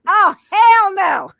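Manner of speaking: slow, loud, high dragon refusal. Retold or imitated. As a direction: drag it out like a sassy dragon. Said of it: "This dragon is like".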